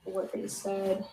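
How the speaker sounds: reverb on the mic; big hall echo. Real, not acted. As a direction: voice echoing in a hall. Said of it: "Sorry for the reverb".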